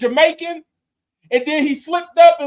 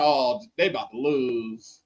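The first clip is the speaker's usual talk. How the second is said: mock quote; 13 semitones lower, 5 dB quieter than usual. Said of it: "I'm like".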